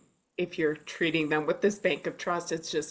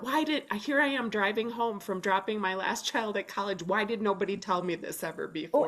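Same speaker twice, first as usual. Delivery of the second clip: mock exasperation; 4 semitones higher than usual. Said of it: "And I thought".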